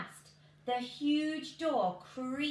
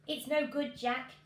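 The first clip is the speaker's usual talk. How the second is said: mum's voice; 3 semitones higher, 5 dB louder than usual. Acted. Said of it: "his mum said".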